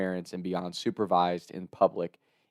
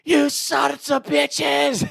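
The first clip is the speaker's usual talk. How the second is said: Lenny; much slower than usual. Retold or imitated. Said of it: "we just hear Lenny screaming".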